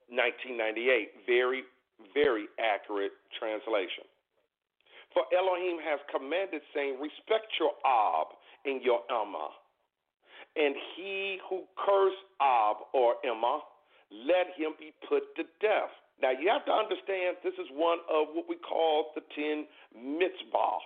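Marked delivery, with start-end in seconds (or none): 5.1-15.9 slow, measured scripture reading. Real, not acted. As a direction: read it out slowly, with pauses. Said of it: "I'll read it slowly".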